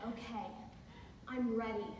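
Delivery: put-on hushed, earnest boyfriend; solemn lover. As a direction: announce it gently, with pauses. Lover solemnly prepares to look.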